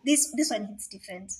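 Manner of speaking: breathy whispered aside. Real, not acted. Confiding to viewers, whispered. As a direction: lean in and whisper it.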